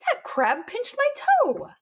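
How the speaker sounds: put-on very high, indignant kid wail; hurt little boy's complaint; crying out in pain. A narrator's reading. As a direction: wail slowly about a sore toe. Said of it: "cried Bob".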